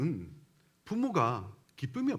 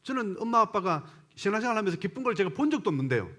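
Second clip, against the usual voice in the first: imitated child's challenge, pitched higher; child talking back; 4 semitones higher than usual. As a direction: act out a child disputing the parents. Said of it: "그렇게 얘기하더란 거예요". (부모에게 따지는 아이 흉내)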